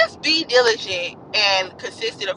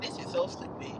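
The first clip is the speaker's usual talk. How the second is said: whispered inner thought; 14 dB quieter than usual. Retold or imitated. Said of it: "in his heart he was thinking".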